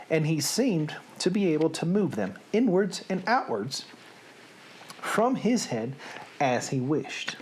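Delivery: expressive, measured storybook read; story narration. A narrator's reading. Storyteller reading Sophie's capture to listeners, expressive narration. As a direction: read it like a lively tale.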